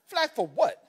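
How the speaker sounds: high, laughing "flagged for what"; indignant disbelief. Retold or imitated. Father scoffing at TSA agent, laughing disbelief. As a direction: scoff at the absurd word.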